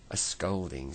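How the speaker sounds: a lightly voiced Dame Washalot, level and firm; a hint of an indignant old washerwoman. Dame Washalot calling down the tree, a touch indignant. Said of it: "said Dame Washalot's voice".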